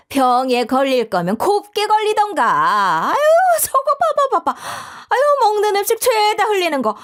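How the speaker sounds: sulky refusal turning to scornful muttered disgust; spiteful mother-in-law. Acted. (심술궂게 비아냥대는 시어머니)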